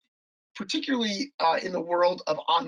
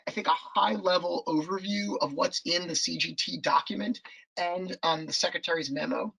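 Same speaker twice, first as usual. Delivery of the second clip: hoarse voice. Real, not acted. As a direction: voice going hoarse and worn. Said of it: "am I somehow losing my voice here".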